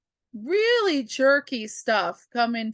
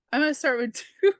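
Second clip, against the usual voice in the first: laughing; 5 semitones higher, much faster than usual. Retold or imitated. Laughing at own joke in quote.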